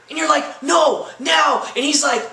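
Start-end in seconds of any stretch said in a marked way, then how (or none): 0.6-1.6 sharp, raised mock demand; a girlfriend snapping at her boyfriend, raised and insistent. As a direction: insist it has to be now.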